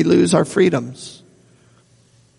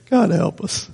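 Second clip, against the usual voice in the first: laughing exasperation; 3 semitones higher, 5 dB quieter than usual. Real, not acted. Exasperated aside.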